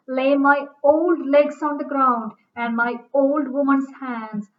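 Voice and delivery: put-on slow, emphatic reading with weight on "old"; stress on old. Shown as a demonstration. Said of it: "Look at the emphasis on the word old".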